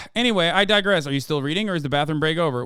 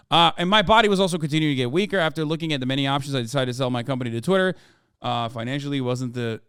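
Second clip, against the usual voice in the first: put-on Icelandic accent; 2 semitones lower than usual. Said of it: "apologize for the accent".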